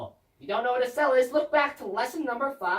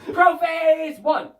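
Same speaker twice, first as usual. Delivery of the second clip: booming title call, slow; loud slow announcement; 4 semitones higher, 7 dB louder, slower than usual. Acted.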